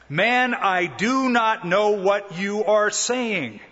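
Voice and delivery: exasperated denial. Acted. Peter's third denial.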